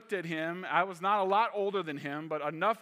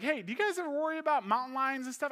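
curious question; 9 semitones higher, 4 dB louder, faster than usual. Retold or imitated. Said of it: "I was like".

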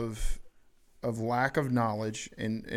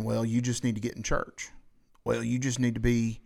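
light Southern twang; a hint of Southern accent. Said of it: "my twinge of Southern accent there".

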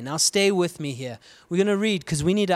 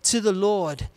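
raised, pleading call to the nation; prophet crying out; 4 semitones higher than usual. Acted. Isaiah pleads with kings and people, a raised, urgent cry. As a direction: cry out like a prophet begging kings to turn back. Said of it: "And he's crying out".

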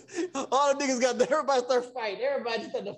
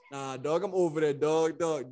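imitating Tim; 8 semitones lower, slower than usual. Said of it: "He be like".

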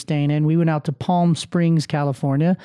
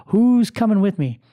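Jerry Maguire rally cry; 4 semitones higher than usual. Retold or imitated. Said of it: "Kinda like the last scene of, uh, Jerry Maguire".

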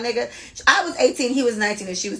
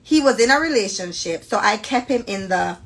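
slow, careful Jamaican read-aloud; deliberate Jamaican-accented storytelling; proper Jamaican accent. Acted. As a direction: read it measured, in a polite Jamaican lilt. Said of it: "I'm gonna talk like this".

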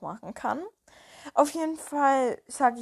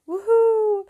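high, loud joyful whoop; excited cheer; 11 semitones higher, 7 dB louder than usual. Real, not acted. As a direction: cheer with delight. Cheering about riding tomorrow.

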